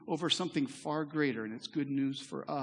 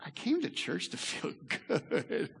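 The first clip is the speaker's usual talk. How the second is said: mock churchgoer's thought, laughing. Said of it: "some of you may be thinking".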